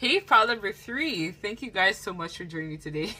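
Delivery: loud, words coming through laughter. Reader opening pile number three and thanking viewers, laughing while talking. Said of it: "Sorry, guys, for laughing".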